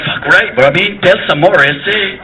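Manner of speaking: mock Spanish accent. Spanish people reacting to the wall, Spanish accent. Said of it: "So the Spanish people are going".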